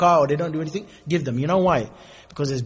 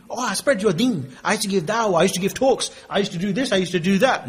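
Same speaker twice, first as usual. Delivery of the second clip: boastful scholar; 4 semitones higher than usual. Retold or imitated. Scholar boasts of his deeds.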